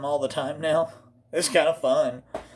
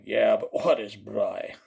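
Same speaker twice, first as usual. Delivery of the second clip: puzzled question; 5 semitones lower than usual. Acted. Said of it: "People are going".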